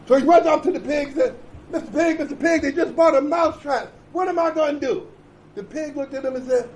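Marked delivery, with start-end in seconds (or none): 1.7-5.1 frantic mouse. Acted. Mouse pleads to pig, laughing.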